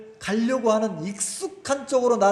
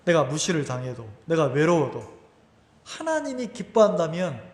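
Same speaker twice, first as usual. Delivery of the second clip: ordinary talk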